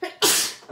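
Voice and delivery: a sudden real sneeze; sharp breathy sneeze burst; sneezing. Real, not acted. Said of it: "je vais éternuer".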